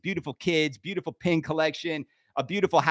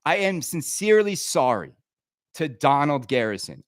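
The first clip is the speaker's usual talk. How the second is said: sincere; 5 semitones lower than usual. Real, not acted. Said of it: "Let me be sincere for a moment".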